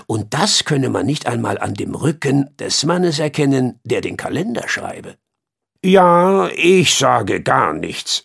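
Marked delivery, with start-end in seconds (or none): 5.8-8.2 put-on old king voice. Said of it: "meinte der alte König".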